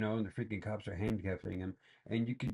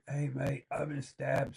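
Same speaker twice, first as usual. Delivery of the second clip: mock casual liar; 5 semitones higher, slower than usual. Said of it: "a common thing to say in England?".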